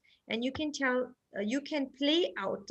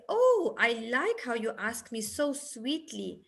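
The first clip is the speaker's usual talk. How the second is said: sweet praising parent. Shown as a demonstration. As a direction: coo approval like a proud parent to a toddler. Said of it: "And then you'll say".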